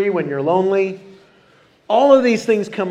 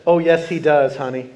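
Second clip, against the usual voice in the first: put-on sweet old woman voice; 6 semitones lower than usual. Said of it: "I can just picture her saying it like that".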